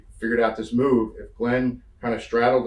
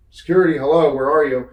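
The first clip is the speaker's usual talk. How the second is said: louder, higher retold call; calling for security; 4 semitones higher, 7 dB louder than usual. Wrestler holding a heckler on the apron, calling out. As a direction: call out impatiently for help.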